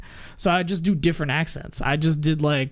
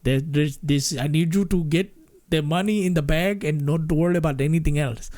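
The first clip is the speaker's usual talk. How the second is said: lightly voiced Indian-accented robber; the speaker calmly tells the teller to bag the money; the speaker's Indian accent. Shown as a demonstration. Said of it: "when I put the mask on".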